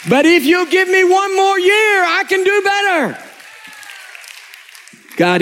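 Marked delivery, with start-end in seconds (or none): 0.1-3.2 humble plea. Retold or imitated.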